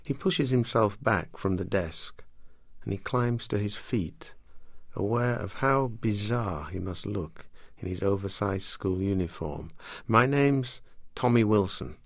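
measured literary reading voice; story reading. Acted. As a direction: read it like an audiobook. Author reads from her novel.

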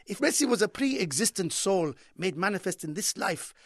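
lightly voiced impassioned Arab commentator; passionate commentator. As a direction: translate the goal call with a touch of grandiose fervour. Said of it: "They're very passionate".

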